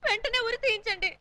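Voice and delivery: hammed-up weepy remorse; tearful pleading. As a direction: plead for punishment as if crying. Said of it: "మీరు ఏడిస్తే".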